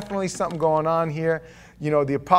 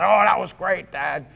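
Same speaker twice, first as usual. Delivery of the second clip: cheerful daughter; 4 semitones higher, 3 dB louder than usual. Retold or imitated. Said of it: "and says".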